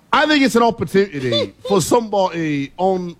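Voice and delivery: host riffing in a put-on English accent. Host keeps up his English accent on air. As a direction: slip into an English accent for the analysis. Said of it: "the English accent might be the only thing".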